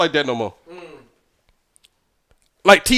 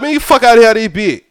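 fast Georgia accent; 2 semitones higher than usual. Shown as a demonstration. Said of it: "I said it, like, super fast".

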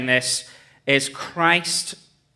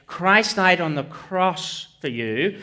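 slow, heartfelt declaration with weight on the words; genuinely convincing; slower than usual. Shown as a demonstration. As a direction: preach it sincerely, slowly. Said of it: "enables me to genuinely say".

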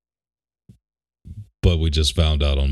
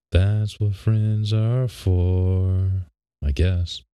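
sarcastic; 4 semitones higher, much slower than usual. Real, not acted. Friend dodging a lost bet.

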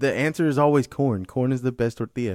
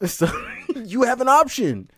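laughing; 9 semitones higher, 5 dB louder than usual. Real, not acted. Laughing argument.

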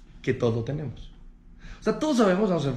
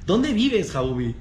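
reclamo burlón; 3 semitones higher than usual. Acted. Discusión actuada por estacionar.

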